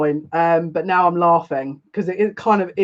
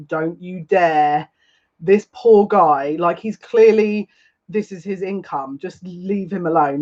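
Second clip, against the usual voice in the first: mild warning; slower than usual. Retold or imitated. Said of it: "as if to say".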